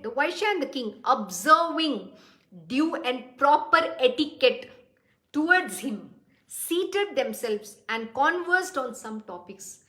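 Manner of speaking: slow, measured reading of a sacred verse; 缓慢庄重地诵读经文; scripture reading. Acted. Reads scripture verse aloud.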